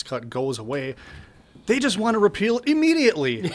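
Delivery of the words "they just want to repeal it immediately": higher, laughing disbelief. Real, not acted. Commentator mocking rivals' plan, laughing.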